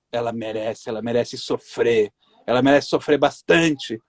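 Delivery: low, slow, cruel demonic voice; possessed demon voice. Retold or imitated. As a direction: growl it out like a possessed spirit. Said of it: "sabe aquela voz do demônio". (voz grave de demônio possuído)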